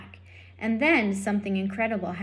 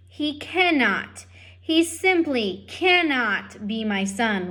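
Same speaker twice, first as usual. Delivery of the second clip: despairing father; 3 semitones higher, 4 dB louder, slower than usual. Acted. Lester despairing about his son.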